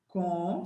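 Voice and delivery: first syllable of contém, "Com", said alone; syllable broken off. Shown as a demonstration. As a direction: say "Com" as a separate syllable, then stop. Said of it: "separa a sílaba".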